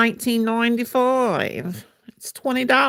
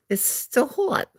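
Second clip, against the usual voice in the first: higher, slow put-on voice; funny voice; 7 semitones higher, slower than usual. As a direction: stretch it out in a silly voice. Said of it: "why am I talking like this".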